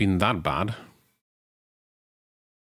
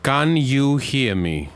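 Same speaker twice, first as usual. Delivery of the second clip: drawn out, raised voice; louder, slower repeat; 4 semitones higher, 4 dB louder, much slower than usual. Real, not acted. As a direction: say it again slowly and louder.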